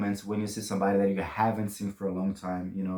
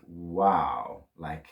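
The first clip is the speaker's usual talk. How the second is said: mild wow; 6 semitones lower, 3 dB quieter, much slower than usual. Shown as a demonstration. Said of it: "nossa means, like".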